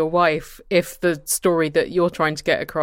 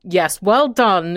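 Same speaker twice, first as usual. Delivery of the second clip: acidic; 3 semitones higher, 5 dB louder, much slower than usual. Retold or imitated. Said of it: "in this kind of acidic voice".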